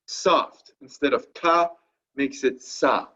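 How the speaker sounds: "ka" hard, then "sa" soft. Shown as a demonstration. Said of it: "makes that C soft".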